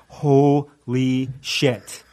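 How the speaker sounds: very slow, stretched-out expletive; stunned dread. Retold or imitated. Athlete sees the workout numbers, retold stunned dread. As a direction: drag each word out as if the dread is sinking in.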